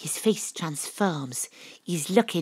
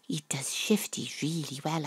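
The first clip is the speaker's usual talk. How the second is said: whispered thought; 3 semitones lower, 9 dB quieter than usual. A narrator's reading. Narrator's inner thought.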